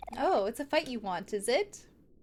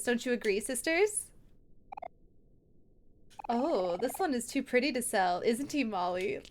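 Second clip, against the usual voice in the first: villain sister. Acted. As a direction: tease the trapped kids.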